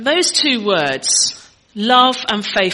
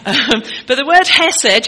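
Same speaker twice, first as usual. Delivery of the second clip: laughing; 5 dB louder than usual. Real, not acted.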